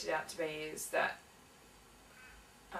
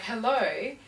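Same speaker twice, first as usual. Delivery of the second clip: louder, higher, fed-up hello; impatient hello; 4 semitones higher, 6 dB louder than usual. Retold or imitated. Repeating hello to a silent caller, exasperated. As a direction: call into the phone again, annoyed. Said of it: "I was getting really".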